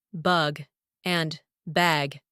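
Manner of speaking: "bug" with uh, "bag" with open a; vowel contrast. Shown as a demonstration. Teacher contrasting two words, different vowels in "bug", "bag". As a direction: set "bug" apart from "bag", spaced out. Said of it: "one misspelled letter".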